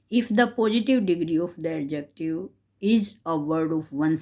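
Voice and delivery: slow, deliberate reading of a textbook rule. Shown as a demonstration. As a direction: read it out slowly for students to follow. Teacher reads the grammar rule.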